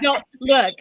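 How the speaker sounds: laughing loudly; laughing protest to the chat. Real, not acted. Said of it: "laughing at chat teasing".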